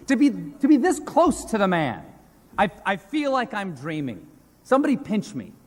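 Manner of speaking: high-pitched, gushing mock awe; overwhelmed admirer, stumbling over words; starstruck awe. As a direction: gush like a fan beside your hero. Gushing over his hero, the President.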